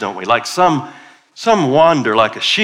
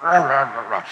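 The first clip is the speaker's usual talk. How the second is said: grumbling mumble; 2 semitones higher than usual. Shown as a demonstration. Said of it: "do a little mumbling".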